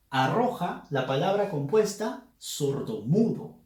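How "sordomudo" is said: "sordomudo" as one word, weight on mu; stress on MU. Shown as a demonstration. Teacher showing a compound grave, "sordomudo" stressed on mu. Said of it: "la fuerza de voz en la sílaba mu".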